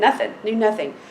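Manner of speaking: ordinary talk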